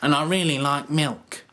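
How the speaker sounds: plucky, bursting with confidence; calling out to Roy and Jen in a high, camp voice; bad Moss impression. Shown as a demonstration. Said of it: "so that you can say things like".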